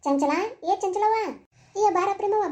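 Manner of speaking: slow, drawn-out call of a name. Acted. Visitor summoning Chanchala at her house, calling out.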